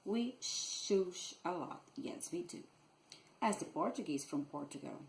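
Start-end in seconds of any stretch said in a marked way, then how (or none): 0.4-1.4 "shush" with long hissing sh at both ends; sh sound. Shown as a demonstration. Teacher illustrating Rio's S, "shush" with lingering sh. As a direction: draw out each sh in "shush". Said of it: "it's also correct to make a sh sound".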